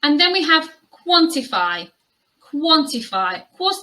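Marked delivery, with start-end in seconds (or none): 0.9-3.4 "quantify" as KWON-ti-fy; careful model pronunciation. Shown as a demonstration. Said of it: "demonstrate the similarities and differences".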